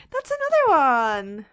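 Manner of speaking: loud, drawn-out cry of discovery; big, slow excited holler; excited shout. Real, not acted. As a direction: shout it out, stretching the words. Spots another one, calls out.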